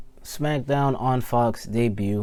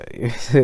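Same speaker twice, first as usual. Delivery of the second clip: voice crack laugh. Real, not acted. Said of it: "voice crack".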